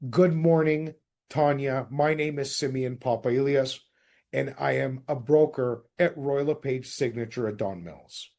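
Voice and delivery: friendly agent on the phone; cold call script. Shown as a demonstration. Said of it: "first and foremost".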